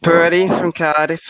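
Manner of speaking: sing-song mock Welsh; put-on Welsh accent. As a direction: playfully lay on the Welsh accent. Putting on Welsh for the group.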